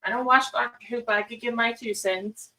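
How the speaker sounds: lightly voiced cat, quick and high. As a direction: speak as the pushy cat, playfully. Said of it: "He's like".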